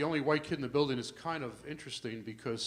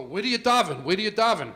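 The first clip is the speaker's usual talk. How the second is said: mock eager questioning; 5 semitones higher, 8 dB louder than usual. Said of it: "they go".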